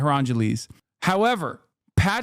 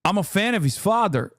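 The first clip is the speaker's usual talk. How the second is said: practicing PBD's accent; faster than usual. Shown as a demonstration. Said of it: "yes, I'm practicing live".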